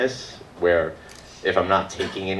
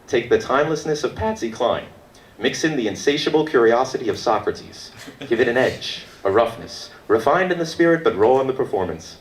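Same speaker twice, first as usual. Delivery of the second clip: higher, mock-promotional reading; promo blurb read-out; 5 semitones higher than usual. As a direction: read the write-up like a lofty advertisement. Reads website blurb aloud to crowd.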